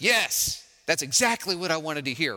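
a lightly voiced sarcastic yes; mock eager Moses. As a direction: play Moses pretending to be thrilled. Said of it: "right? No".

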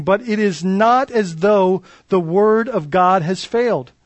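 measured, solemn reading of the passage; scripture reading. Acted. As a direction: read the verses aloud to the congregation.

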